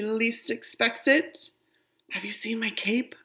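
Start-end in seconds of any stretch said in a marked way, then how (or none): 2.1-3.1 whisper. Acted. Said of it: "I whisper".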